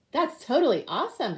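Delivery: high excited shout; shouting boy. Acted. Little boy at lunch shouting, excited. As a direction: cheer it like a thrilled kid. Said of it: "Edison shouted".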